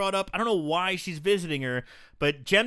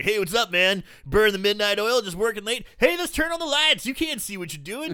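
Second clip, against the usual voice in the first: lightly acted friendly student, louder; chatty student; 4 semitones higher, 3 dB louder than usual. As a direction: play an oblivious, casual greeting, pitch climbing. Acting out unsuspecting student's friendly chatter.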